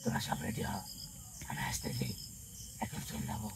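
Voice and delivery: secretly rally the others under the breath; hushed aside. Real, not acted. Spirit tells companions to get ready to leave, hushed.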